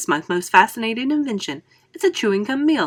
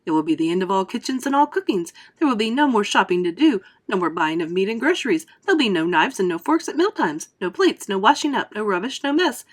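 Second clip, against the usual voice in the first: louder, eager showman pitch; crying out eagerly; 4 dB louder than usual. Acted. Wonka to a doubting father, loud and eager. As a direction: wave away the doubter with big promises. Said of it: "cried Mister Wonka".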